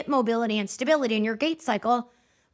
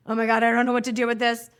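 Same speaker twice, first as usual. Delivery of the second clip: flustered; 4 dB louder, faster than usual. Retold or imitated. Flustered at big compliment.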